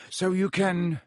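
high, halting, strained voice; falter, then push on while holding it together; worried, hesitant calling; trying to sound steady. A narrator's reading. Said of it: "trying to keep his voice steady".

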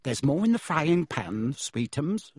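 doting mother to her son; mild doting coo. Acted. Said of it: "said Aunt Petunia".

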